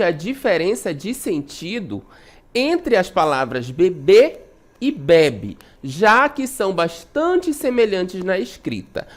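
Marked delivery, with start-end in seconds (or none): 3.7-4.4 bebê with the final bê stressed; stress on the last syllable. Shown as a demonstration. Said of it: "A sílaba tônica está na última sílaba". 4.9-5.6 bebe with the first be stressed, open e; stress on the first syllable. Shown as a demonstration. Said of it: "ela está na penúltima".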